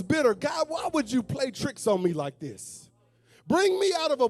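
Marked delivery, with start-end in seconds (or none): 0.3-2.8 shouted plea to God; desperate cry. Retold or imitated. Thirsty people cry out at God.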